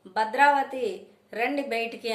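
calling them out, loud and high; mother shouting at the neighbours' gate. Acted. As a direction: yell at the house to come outside. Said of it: "గట్టి గట్టిగా అరుస్తుంది".

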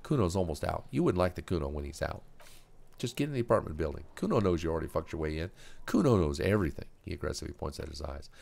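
put-on loud, cocky kid bossing around; a punk barking orders at a cop; Kuno orders.

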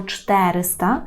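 "чтериста" said slowly with stress on ЧТЕ; stress on first syllable. Shown as a demonstration. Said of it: "Мали би наголошувати".

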